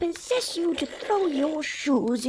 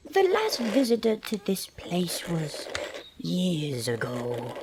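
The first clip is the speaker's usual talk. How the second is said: ominous whisper; 6 semitones lower, 8 dB quieter than usual. Acted. Witch hints ominously.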